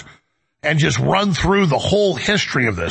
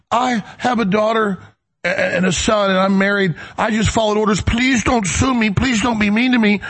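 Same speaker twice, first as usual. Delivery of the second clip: hammed-up tearful begging, pitched up; mock crying plea; 4 semitones higher than usual. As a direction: imitate a guard begging through tears. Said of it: "starts crying".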